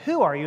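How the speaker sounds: WHO stressed, ARE YOU falling away. Shown as a demonstration. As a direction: put the emphasis on the word WHO. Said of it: "on who".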